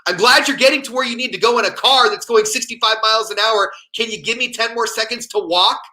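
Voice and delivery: imitating an indignant yell, pitched high; sarcastic high-pitched holler at a passing car; mock yell. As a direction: yell it like an annoyed pedestrian. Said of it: "she'll actually yell".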